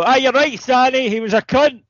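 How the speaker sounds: high, loud mock agreement from the funeral crowd; agreeing mourners. Mourners agreeing aloud at a Scottish funeral, high and loud mock chorus. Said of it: "the other half go".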